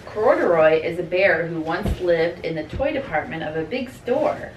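put-on reading to children. A narrator's reading. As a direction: read a bedtime-style story to little kids. Reads picture book to children.

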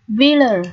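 "villa" ending in a schwa; "villa" with its last A reduced to uh; pronunciation demo. Shown as a demonstration. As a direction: model "villa" for learners, final A as ơ. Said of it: "Chữ A ở đây được phát âm là âm ơ".

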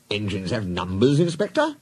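measured, mildly patient, lifting at the end; patient explanation. Acted. Boss explaining numbers to Inspector, patient. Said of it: "he explained patiently".

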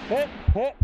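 called out. Real, not acted. Calling hits in firefight.

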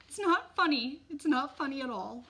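high, loud protest; upset mother's sharp objection; indignant scolding. A narrator's reading. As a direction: scold them for laughing. Upset mother scolds laughing passengers.

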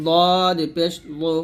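"দদ পেশ লো" with a heavy emphatic Arabic Dad; thick, heavy Dad. Shown as a demonstration. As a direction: round out "লো" into a thick sound. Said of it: "মোটা করে". ("দদ" মোটা করে উচ্চারণ)

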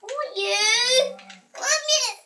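whiny, pleading fussy voice. Acted. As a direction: fuss at the cow like a toddler. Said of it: "this is my fussy voice".

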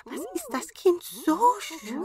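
high wondering dwarf. A narrator's reading. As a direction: marvel like a little dwarf. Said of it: "riefen sie".

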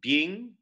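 "Being" squeezed into one syllable, rising; elided. Shown as a demonstration. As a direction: say "Being" as a single beat. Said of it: "elides to one syllable".

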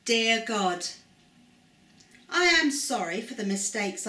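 earnest, steady spoken prayer. Acted. Presenter leading children in prayer, earnest and steady. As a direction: pray it sincerely for the children to follow.

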